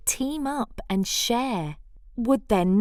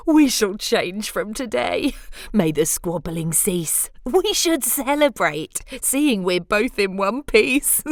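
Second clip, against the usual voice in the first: cheerful proclamation; 4 dB louder than usual. Acted. Bruce cheerfully proclaiming peace.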